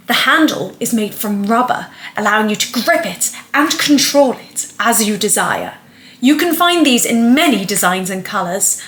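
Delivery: salesy pitch with punched key words; advert read. Acted. Vlogger performing a thirty-second toothbrush advert, salesy read. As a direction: sell it like a product advert.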